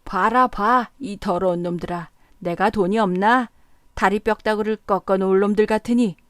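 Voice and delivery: put-on loud furious drunken rant; angrier still. A narrator's reading. Drunk man to everyone in the tavern, loud furious rant. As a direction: rage at them even harder. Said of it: "더욱 성을 내며".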